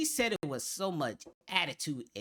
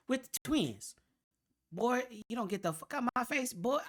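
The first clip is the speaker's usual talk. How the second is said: mock sassy attitude; 4 semitones higher than usual. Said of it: "she said it with so much attitude".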